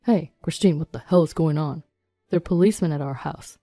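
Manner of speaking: lightly voiced man ranting in indignation; angry rant. Husband phones his wife about policemen at their house, indignant rant. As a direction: rant accusingly, voice a touch put-on. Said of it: "Alden ranted over the phone".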